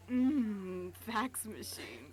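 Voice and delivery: a hushed, slow whisper of fax machines; breathy whisper. Pretend. Cohost teasing the podcast in a slow hushed whisper. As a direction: savour the words in a whisper. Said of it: "Love it when you do that".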